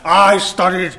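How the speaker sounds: slow, drawn-out mock-Italian tirade; breakdown in Italian accent. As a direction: wail it theatrically in a fake Italian accent. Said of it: "I am in the middle of having a bloody breakdown".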